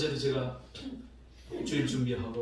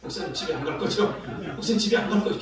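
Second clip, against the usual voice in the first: nagging repeated question. Retold or imitated. Kids begging the pastor not to go home, nagging. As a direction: keep pestering, more insistent each time. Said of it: "계속 물어보는 거예요".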